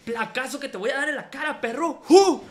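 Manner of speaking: imitando al rapero. Retold or imitated. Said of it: "el vato bien verga".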